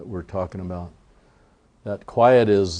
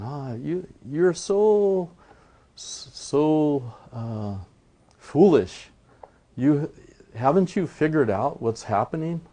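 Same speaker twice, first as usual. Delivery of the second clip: mocking coyotes; 6 semitones higher, slower than usual. Coyotes laughing at Iktomi, high jeering taunt. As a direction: tease him like laughing coyotes.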